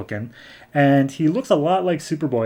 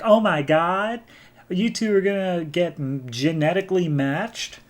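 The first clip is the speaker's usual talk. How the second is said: excited friend; 5 semitones higher than usual. Retold or imitated. Friend reacting to secret kiss news, excited. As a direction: imitate a gushing friend, pitched up.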